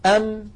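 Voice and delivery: "أم" ending with the lips pressed shut; closed-lips mim. Shown as a demonstration. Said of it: "جربوا هكذا أنتم".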